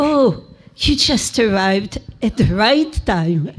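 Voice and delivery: demonstrated French accent. Shown as a demonstration. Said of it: "I will say with a French accent".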